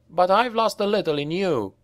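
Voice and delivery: a lad pushing back at his leader; boy countering. A narrator's reading. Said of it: "the boy countered".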